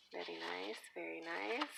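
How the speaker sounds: a light Puerto Rican lilt on very nice; little Puerto Rican accent. Pretend. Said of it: "do a little accent".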